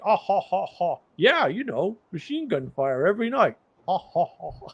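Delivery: lightly voiced friend chuckling it off; a breezy imitated ha ha ha; mock carefree laugh.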